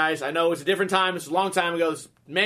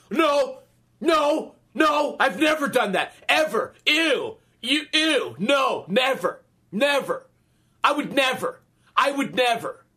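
defensive denial; 6 semitones higher, slower than usual. Retold or imitated. Mimicking a liar friend who insists he never shit himself, mock-indignant shout. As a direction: overplay the liar swearing he never did it.

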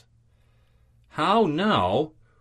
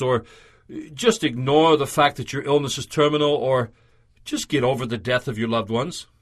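mildly offhand, little rise and fall; unfeeling, dismissive; 2 semitones lower than usual. Acted. Preacher voicing advice Paul does not give, unfeeling and dismissive. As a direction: say it with a touch of indifference. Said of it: "without any feeling or empathy".

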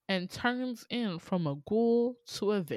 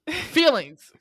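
mock dramatic; 8 semitones higher, 8 dB louder than usual. Real, not acted. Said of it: "mock dramatic sign-off".

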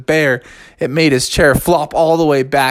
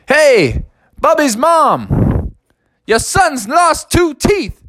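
hollering across field; 13 semitones higher, slower than usual. Acted. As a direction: holler to the mom far away.

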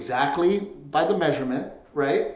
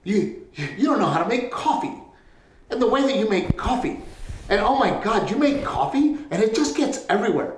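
mock nagging wife; 6 semitones higher than usual. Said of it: "She's fucking bitching at me".

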